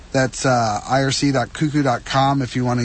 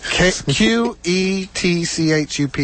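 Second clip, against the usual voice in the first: spelled out slowly; 3 semitones higher, slower than usual. Shown as a demonstration. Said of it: "how do you spell the ketchup".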